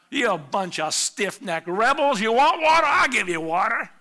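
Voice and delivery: loud, high shout of scorn; angry name-calling. Acted. Moses berating the thirsty people, furious. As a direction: yell it at stubborn rebels. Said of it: "it's name-calling".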